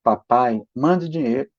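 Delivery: a son asking nicely; polite request. Retold or imitated. Mother rereading the note kindly, as a polite request. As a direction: read it as a gentle, polite plea. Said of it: "Olha como é que tá escrito aqui".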